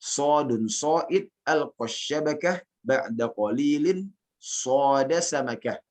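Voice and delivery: slow, measured Arabic verse recitation; teacher modelling a verse line. Shown as a demonstration. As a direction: recite slowly, lifting each phrase ending until the last. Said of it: "Anda bacakan syairnya".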